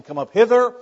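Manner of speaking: high, loud summons; acted calling out. Preacher voices the Lord calling believers up, high loud call. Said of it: "you hear the voice of the Lord saying".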